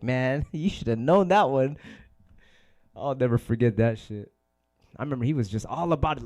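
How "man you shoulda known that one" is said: laughing scold. Retold or imitated. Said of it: "you're like".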